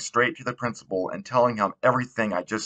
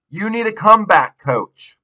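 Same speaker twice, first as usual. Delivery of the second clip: much higher and louder taunting yell; shout; 12 semitones higher, 6 dB louder than usual. A narrator's reading. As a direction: stand on the pedals and yell after the car. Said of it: "to shout".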